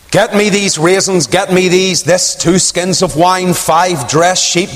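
lightly voiced Abigail giving orders, slowing; retold orders. Abigail ordering her servants, mildly acted. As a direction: list the goods out slowly. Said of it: "she said".

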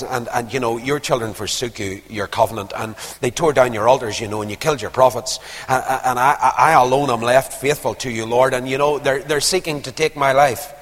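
low, stumbling self-justification; evasive excuse. Acted. Elijah dodging the Lord's question, low, halting self-justification. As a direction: ramble through your excuses, stammering a little. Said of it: "that wasn't answering his question".

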